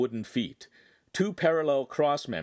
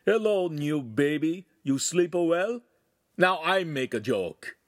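tender call to machine; 6 semitones higher, 4 dB louder than usual. A narrator's reading. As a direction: greet the lathe like a baby. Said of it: "peeked behind it and called".

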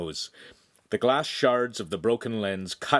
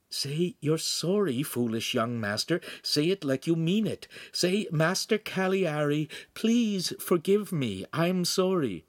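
insistent Pan; 8 semitones higher than usual. Acted. Secret helper dictates apology to young master, insistent coaxing.

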